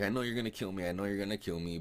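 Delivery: high-pitched mock resignation to death; retold pleading. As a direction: plead like a doomed captive. Captive pleading before being killed.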